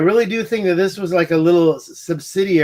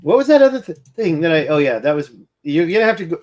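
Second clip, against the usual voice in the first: talking between hiccups; hiccuping; faster than usual. Real, not acted. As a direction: hiccups breaking the words. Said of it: "sorry, now I'm hiccuping".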